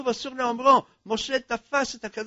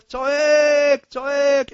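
crying out; 6 semitones higher, 8 dB louder, much slower than usual. A narrator's reading. King cries for the queen.

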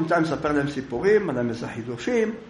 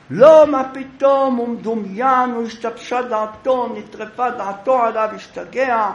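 indignant denial; 8 semitones higher, 7 dB louder than usual. Acted. Accused denies before the rabbi.

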